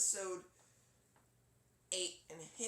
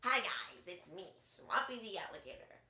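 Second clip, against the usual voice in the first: Swampy's voice now; 4 dB louder than usual. Acted. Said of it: "his voice now sounds more like".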